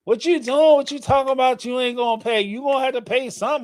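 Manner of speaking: hammed-up daughters mouthing off to mom; mock confrontational. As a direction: snap back at mom with attitude. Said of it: "They came at the mom neck".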